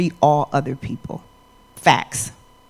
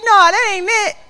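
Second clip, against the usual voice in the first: high, loud, breathless list of complaints; teen daughter ranting at her mother; exasperated daughter; 13 semitones higher, 8 dB louder than usual. Retold or imitated. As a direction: rattle it all off, fed up and loud. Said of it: "She's like".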